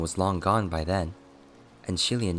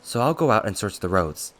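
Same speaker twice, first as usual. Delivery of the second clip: louder, pitched-up reproach; exasperated scolding; 3 semitones higher, 7 dB louder than usual. Acted. Attendant scolding his scatterbrained master over a lost pearl, exasperated. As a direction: scold in a loud, pressed rush.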